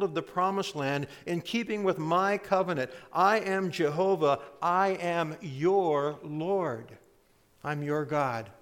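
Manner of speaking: lightly voiced divine declaration, emphatic; God addressing Israel. Preacher speaking as God to Israel, emphatic declaration. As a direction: proclaim it firmly, slowing on the final claim. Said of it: "It's as if God is saying".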